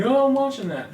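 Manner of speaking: high, startled dad protesting; a dad jolting awake to defend the TV; waking dad voice. Retold or imitated. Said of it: "and be like".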